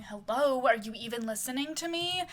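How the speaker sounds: mildly exasperated demand for attention; mock yelling. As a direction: scold him with a restrained mock yell. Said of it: "yelling at Christopher".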